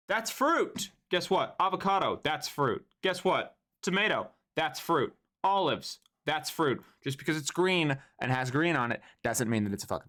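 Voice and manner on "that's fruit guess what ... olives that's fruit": sarcastic lecture. Real, not acted. Lecturing chat on fruits.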